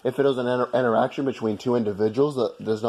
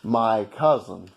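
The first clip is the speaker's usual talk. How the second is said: slow, laughing through the jab; slower than usual. Real, not acted. To the British guy, mocking him while laughing. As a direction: chuckle out the insult slowly.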